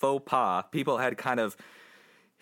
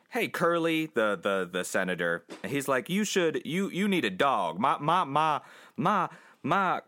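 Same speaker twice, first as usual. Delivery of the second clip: southern senator; 2 semitones higher than usual. Acted. Host voicing the movie's senator, Southern accent. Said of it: "I don't know why I'm doing a southern".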